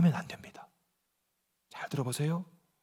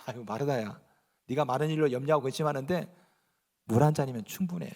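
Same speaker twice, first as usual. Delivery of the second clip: gentle Jesus; 7 semitones lower, 8 dB quieter than usual. Retold or imitated. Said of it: "예수님이 아마 이랬을 것 같아".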